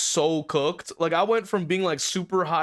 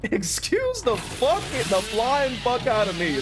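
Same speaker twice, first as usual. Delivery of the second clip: higher, slow, stretched-out disbelief; exaggerated outrage; 4 semitones higher than usual. Real, not acted. Repeating the line at viewers, hammed-up outrage. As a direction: stretch EXCUSE up high in disbelief.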